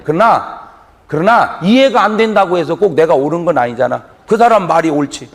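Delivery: ordinary delivery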